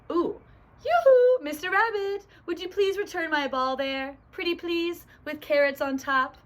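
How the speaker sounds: high, loud yoo-hoo, then coaxing; sweetly pleading otter. Acted. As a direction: call out in a high cartoon voice and beg nicely. Otter politely begging rabbit, saying please.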